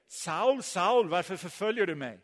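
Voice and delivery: lightly acted voice calling out to Saul; voice from heaven. Unseen voice confronts Saul on the road, calling out. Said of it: "så hör han någon som säger".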